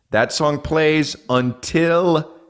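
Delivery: slow, stretched mock drama; drawn out. Comic mocking the endless festival song, slow drawn out.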